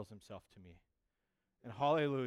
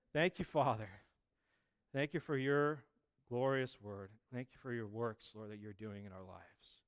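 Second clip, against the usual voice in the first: prayer; 3 semitones lower, 3 dB quieter than usual. Real, not acted. Leads the congregation in prayer.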